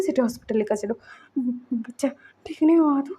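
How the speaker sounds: retold anxious father, mildly voiced; panicked worry. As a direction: stammer the questions as fear rises. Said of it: "वो घबरा रहा था, डर रहा था".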